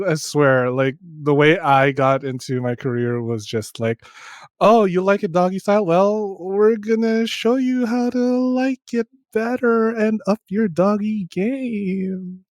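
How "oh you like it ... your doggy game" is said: higher, drawn-out put-on voice of a seductive daddy; mock daddy voice. Host hamming up a daddy line, mock seductive. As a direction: ham up a cheesy daddy line, slow. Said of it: "said Daddy".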